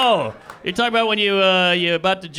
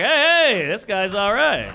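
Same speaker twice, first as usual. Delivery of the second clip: mock approval; 4 semitones higher, slower than usual. Onlooker greets a guy in a lobster bib, approving. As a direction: hail him like a big shot.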